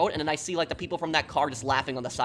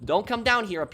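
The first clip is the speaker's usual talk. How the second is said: calling out; 3 semitones higher than usual. Retold or imitated. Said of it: "I was trying to wave cars".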